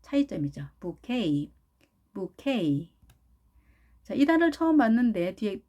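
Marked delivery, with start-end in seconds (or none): 0.8-2.9 부케이 as boo-KAY; stress on last syllable. Shown as a demonstration. Teacher repeats for learners, careful 부케이 ending in KAY. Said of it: "액센트가 있다는 것".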